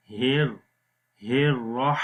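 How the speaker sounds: slow ہر with light h, رح with mid-throat h; two haa sounds. Shown as a demonstration. Teacher contrasting the letters, ہر then رح said carefully. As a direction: separate the h of ہر from the sharper h of رح. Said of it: "تو یہاں پر ہا کی آواز".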